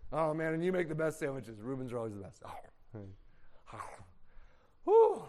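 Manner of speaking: a callous brother chewing and chatting; lazy brother eating. Acted. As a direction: mumble through a meal, unbothered.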